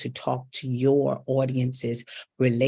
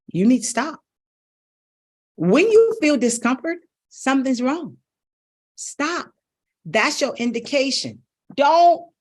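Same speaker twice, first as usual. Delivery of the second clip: much higher, louder urging; urgent; 10 semitones higher, 5 dB louder than usual. Real, not acted. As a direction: plead with them to stop. Urgent warning to audience.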